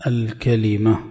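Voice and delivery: الكلمة with an a after the kaf and short i on the lam; three open syllables, ka-li-mah, in الكلمة; full form kalima. Shown as a demonstration. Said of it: "هي بفتح الكاف".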